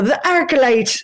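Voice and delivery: slow "the Arclight" stretched to three syllables, Ark-a-light; Arclight with extra syllable. Shown as a demonstration. Naming the theater in her Irish way, "Arclight" said Ark-a-light. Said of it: "I always had an extra syllable".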